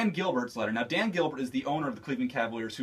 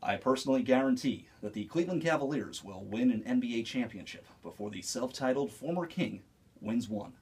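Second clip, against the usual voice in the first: Jim Nantz impression; 5 semitones lower, 5 dB quieter than usual. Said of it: "Jim Nantz".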